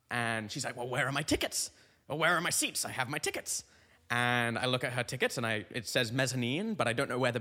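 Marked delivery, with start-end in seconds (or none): 0.8-3.6 lightly voiced British lady asking for help; a hint of British theatregoer, questioning. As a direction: ask as a mildly puzzled British lady. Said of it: "she's British in this story".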